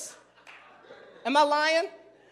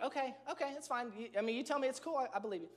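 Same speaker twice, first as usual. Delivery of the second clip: much softer, resigned okay; grudging okay; 12 dB quieter, faster than usual. Retold or imitated. To his wife, softly and grudgingly giving in. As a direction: give in quietly but unconvinced.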